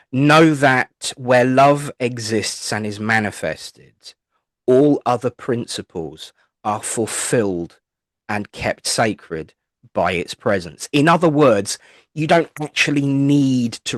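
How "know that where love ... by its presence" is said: solemn recitation. Acted. Reciting a spiritual commandment.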